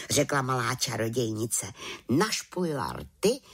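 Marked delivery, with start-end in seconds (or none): none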